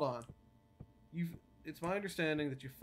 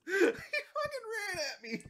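high, slow, drawn-out shriek; real panic, pitched way up; shrieking fright; 4 dB louder, slower than usual. Real, not acted. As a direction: squeal at the monster charging. Startled by monster charging.

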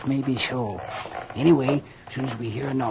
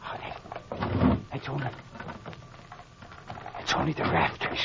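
breathy hush, much softer; 9 dB quieter than usual. Acted. Mayor hushing the doctor after the noise, whispered. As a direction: breathe it, afraid to be heard.

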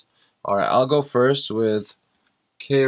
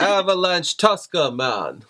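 put-on higher-pitched silly Southern accent; mock Southern accent; 4 semitones higher than usual. Husband making his wife laugh, higher mock Southern accent. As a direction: ham up a Southern accent on the card name. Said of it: "There's your Southern accent".

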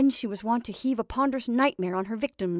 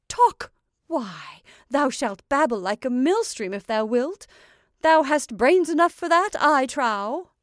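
loud, emphatic witch's harangue; scolding, encouraging witch; 3 semitones higher, 5 dB louder than usual. Acted. Witch promises her Scarecrow it will talk, forceful harangue. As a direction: lecture your creation with raised, forceful voice.

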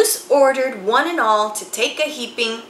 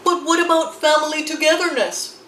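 sighing plea; 6 semitones higher, 3 dB louder, faster than usual. A narrator's reading. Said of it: "Moose sighed".

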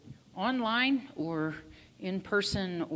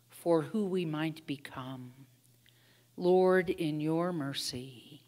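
prayer. Acted. Leads prayers of petition.

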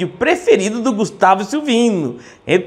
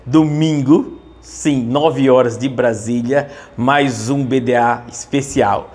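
breaking news; 5 semitones lower than usual. Pretend. Mock TV bulletin interrupting programming.

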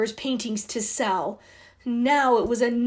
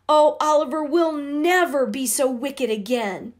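earnest promise; 5 semitones higher, 4 dB louder than usual. Acted. Girls promise to be good.

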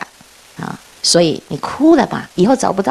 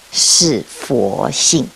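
put-on slow solemn child's answer; 9 semitones lower, much slower than usual. Boy answers the patriarch, dialogue.

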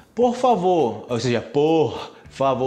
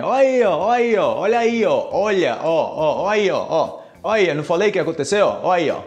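triumphant, spotting it; excited recognition; 2 semitones higher, 3 dB louder than usual. Pretend. Learner hearing the phrase in a song, excited recognition. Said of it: "você, "Ah, já sei".

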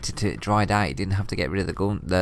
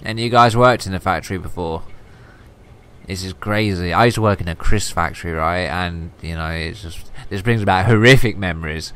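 loud animated rant; worked up and loud; excited; 6 dB louder than usual. Real, not acted. Excited rant about factory job.

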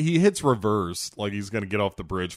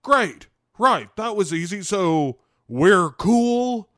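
eager nervous voice; 9 semitones higher, 6 dB louder, slower than usual. Retold or imitated. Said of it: "he's like".

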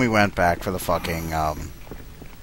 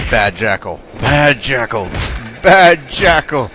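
scolding a dog; 5 semitones higher, 8 dB louder than usual. Pretend. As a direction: scold it like a naughty pet.

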